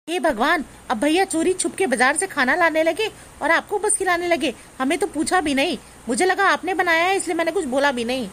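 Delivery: high-pitched scandalized complaint; indignant. Acted. Sister-in-law outraged at secret food.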